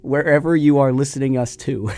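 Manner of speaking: quoting the slip while laughing; laughing quote. Retold or imitated. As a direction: tease the gaffe through laughter. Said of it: "That was awesome".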